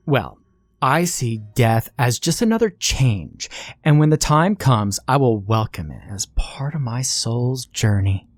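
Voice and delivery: calm statement. Acted.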